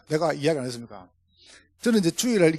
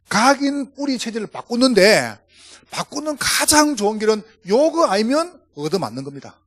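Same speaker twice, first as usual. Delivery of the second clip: rising, punchy pulpit delivery, louder on key phrases; fervent preaching; 3 semitones higher, 4 dB louder than usual. Acted. Pastor urging the congregation to change, fervent preaching. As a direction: drive the point home to the flock.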